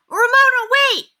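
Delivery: loud high call; loud, high shout after her; yell. A narrator's reading. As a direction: call her back across the yard. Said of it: "yelled Henry".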